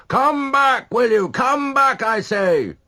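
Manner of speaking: high, loud calls; calling after. A narrator's reading. A pursuer calling after Donna as she runs, loud. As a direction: shout after the fleeing boy. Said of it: "a voice calling".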